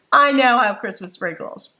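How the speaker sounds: ordinary talk, nothing marked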